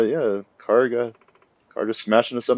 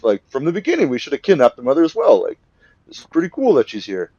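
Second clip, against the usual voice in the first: gloating crook; 6 semitones higher, 4 dB louder than usual. Retold or imitated. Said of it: "she says, like".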